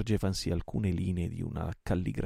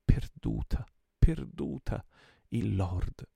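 roar; 3 semitones higher, 6 dB louder, much slower than usual. A narrator's reading. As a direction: roar in despair. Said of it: "ruggì egli".

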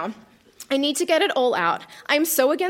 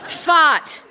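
blurted; 2 semitones higher, 5 dB louder than usual. Acted. Comic diary swear.

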